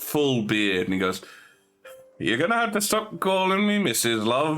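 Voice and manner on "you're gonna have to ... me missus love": burly man. Acted. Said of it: "a rather burly man comes out".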